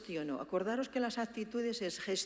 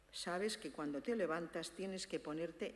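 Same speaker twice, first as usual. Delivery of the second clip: neutral tone; 3 semitones lower, 7 dB quieter than usual. Shown as a demonstration. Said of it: "como yo le he dicho eso en tono neutro".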